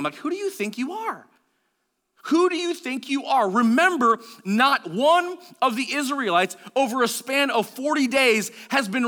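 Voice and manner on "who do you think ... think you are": high, derisive challenge; mocking. Older brothers putting young David down, mocking. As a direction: sneer it at an upstart little brother. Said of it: "mocking him".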